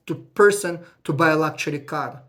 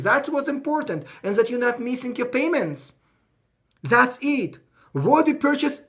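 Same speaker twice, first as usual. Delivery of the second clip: worked up, raising voice; 5 semitones higher than usual. Real, not acted. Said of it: "I may be raising my voice because I'm too emotional".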